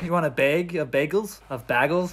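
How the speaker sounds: questioning in mock Wisconsin vowels; Wisconsin accent. Teasing friends about bagels, mock Wisconsin accent. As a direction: play with Wisconsin "bag" and "bagels". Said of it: "Dude, Wisconsin".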